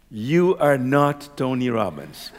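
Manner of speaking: slow, deliberate correction in a retold voice; slowly spaced words, quoting an authority; retold voice's rebuke. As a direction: lightly voice a firm, measured reply. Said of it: "I hear a voice in my head".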